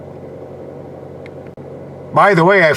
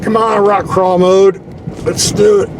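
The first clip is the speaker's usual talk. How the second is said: urging on; 6 semitones higher, slower than usual. Real, not acted. Urging the jeep over rocks.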